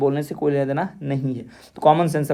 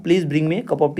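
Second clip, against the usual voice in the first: "Please bring me a cup of tea" with the tone falling at the end; falling intonation; much slower than usual. Shown as a demonstration. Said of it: "falling intonation यानी tone गिरने का थोड़ा सा उदाहरण". ("Please bring me a cup of tea" के अंत में tone गिराते हुए)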